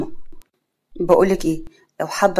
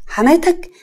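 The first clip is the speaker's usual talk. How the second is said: sharply higher, incredulous; surprised question; 8 semitones higher, 3 dB louder, slower than usual. Acted. Mother echoes the suitor's word, surprised. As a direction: echo it in disbelief.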